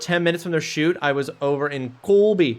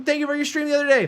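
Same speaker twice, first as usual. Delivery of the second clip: put-on higher East Coast Canadian accent; 10 semitones higher, faster than usual. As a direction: thank them in a thick Canadian accent. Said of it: "I'm doing my Canadian accent right now".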